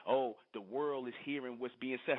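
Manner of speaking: slow, sneering mock of the caller; mocking imitation. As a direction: drag it out as a mocking parody. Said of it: "'cause you talking about".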